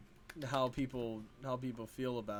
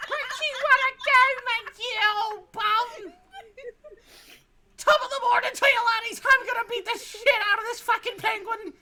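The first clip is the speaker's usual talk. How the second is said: high, loud hammed-up Irish brogue; over-the-top Irish accent; mock Irish accent; 11 dB louder than usual. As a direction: shout it like a cartoon Irish brawler. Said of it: "Let me practice my Irish accent".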